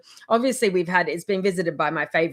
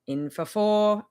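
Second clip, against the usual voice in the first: slow breathing count; 2 semitones lower, slower than usual. Shown as a demonstration. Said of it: "do the box breath".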